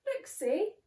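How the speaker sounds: lightly squeaky reassuring mouse. Acted. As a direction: comfort the bear like a tiny mouse. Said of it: "Mouse squeaks".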